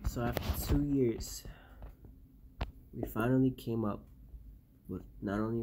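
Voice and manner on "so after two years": whisper. Acted. Whispered log entry.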